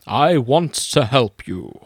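slow, kindly wizard voice; measured, caring old mentor; Gandalf. Acted. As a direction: offer help slowly and solemnly. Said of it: "my best Gandalf impression".

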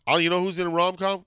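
ordinary talk

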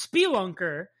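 "spelunker" with a long ee, SPEE-lunker; "spelunker" opening on a clear "spee"; odd pronunciation. Real, not acted. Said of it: "Why do you say it so weird?".

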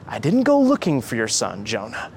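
usual speaking voice

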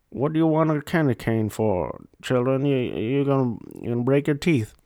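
second-hand celebrity impression, scolding a child; Charles Barkley as Santa. Radio Santa answering a child's candy wish, in a mock celebrity voice. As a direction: play a sportsman-turned-Santa telling off a young caller. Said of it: "doing an impression of Charles Barkley as Santa".

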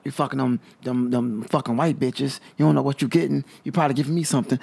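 lightly voiced sassy girlfriend with a neck roll; mock angry girlfriend. Friend imitates the guy's girlfriend scolding him, lightly sassy. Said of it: "the little neck thing".

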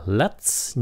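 LET'S with an audible hissed TS ending; hissed final S. Shown as a demonstration. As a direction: finish LET'S on a clear hiss. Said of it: "Các bạn nhớ xì nha". ("let's" nhớ xì âm cuối)

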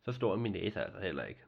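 usual speaking voice

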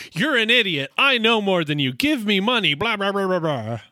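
half-yelled imitation of a shrieking rant; Annie. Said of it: "she starts screaming".

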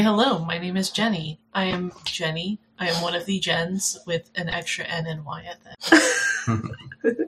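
flat, even robotic read. Shown as a demonstration. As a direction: recite it like a robot. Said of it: "Are you a robot?".

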